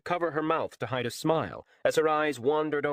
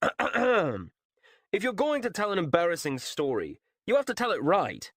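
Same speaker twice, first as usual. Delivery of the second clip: teasing Tam; 8 semitones higher than usual. A narrator's reading. Narrator voices Tam teasing.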